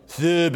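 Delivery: Phoebe said the German way, with an o-umlaut; German-style Phoebe, rounded ö in the first syllable; German pronunciation. Shown as a demonstration. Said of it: "if you were saying it in German".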